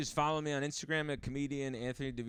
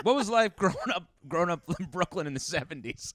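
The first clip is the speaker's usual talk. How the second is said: raised, mock-keen interviewer question with a laugh; imitated interviewer; 4 semitones higher than usual. Interviewer asking from the wrong comic's bio, mock-keen.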